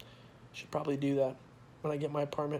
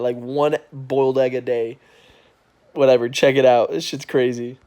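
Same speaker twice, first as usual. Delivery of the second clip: loud, high, excited ranting; excited shouting; 4 semitones higher, 13 dB louder than usual. Real, not acted. Vlogger loudly raving to viewers about free climbers.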